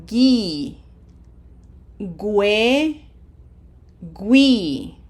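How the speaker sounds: each syllable said alone, crisply separated; "gi", "gue" with a w glide, "gui" drawn out for learners; syllable drill. Shown as a demonstration. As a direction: model gi, gue, gui one at a time. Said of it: "Let's try it in words".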